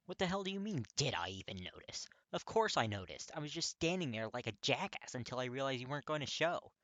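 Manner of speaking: loud, high, spitting anger; spitting mad. Acted. Katsuki shouting back at Kirishima, spitting mad. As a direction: spit the words out furious. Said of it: "Katsuki's spitting mad".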